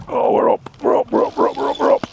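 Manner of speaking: high, rapid excited chant; cheering the fish up. Real, not acted. Fish breaks the surface.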